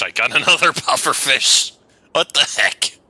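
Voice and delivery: delighted disbelief at the catch; giggly what-the-heck surprise; laughing surprise. Real, not acted. Catches another pufferfish in game.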